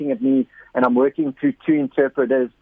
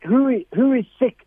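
high, bold call to the crowd; 9 semitones higher than usual. Retold or imitated. Preacher calling out to the village, bold and high. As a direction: boldly summon the sick, pitched well up. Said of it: "And I'm like".

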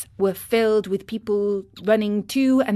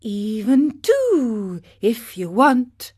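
slow, courteous fish voice; lightly voiced polite dolphin; 3 semitones higher, 4 dB louder, slower than usual. A narrator's reading. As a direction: answer graciously and unhurried. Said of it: "answered the fish".

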